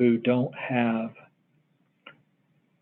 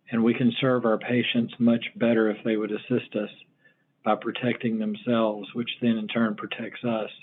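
breathless, pausing for air; short of breath. Real, not acted. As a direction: speak with little breath left. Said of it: "Sorry, I'm a little short of breath".

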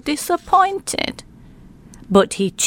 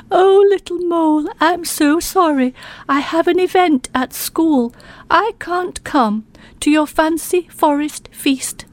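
sorry porcupine; 5 semitones higher than usual. Acted. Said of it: "shook her head and said".

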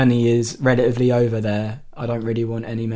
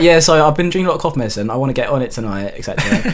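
laughing; 5 dB louder, faster than usual. Retold or imitated. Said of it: "I was like".

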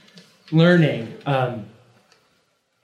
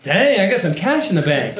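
lightly hammed-up thrill, pitched higher; mock delight; 5 semitones higher than usual. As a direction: replay the first-paycheck thrill. Acts out delight at first paycheck.

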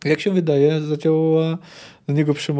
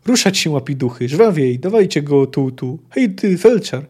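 louder barked commands; shouting orders; 5 dB louder than usual. Acted. Armoured knight driving the medics, loud commanding shouts. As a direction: hurry the medics along. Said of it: "pokrzykiwał, komenderował, popędzał".

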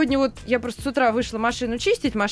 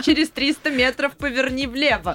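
sat-nav voice; 3 semitones higher than usual. Retold or imitated. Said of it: "Он разговаривает как навигатор".

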